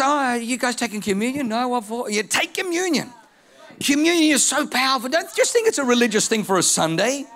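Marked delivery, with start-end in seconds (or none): 0.0-3.1 higher Southern country accent, hammed up; goofy higher Southern country accent; Mater's Southern accent. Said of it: "I'll stop using his accent".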